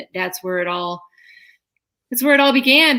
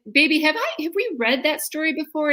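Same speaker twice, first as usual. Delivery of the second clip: higher-pitched careful parent voice; gently; 6 semitones higher than usual. Retold or imitated. Mother questions her little girl about the story, retold gentle coaxing. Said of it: "So gently, I said".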